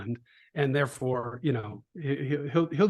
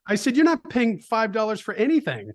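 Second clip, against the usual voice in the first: laughing; 8 semitones higher, 4 dB louder than usual. Retold or imitated. Dad laughing retelling his reply.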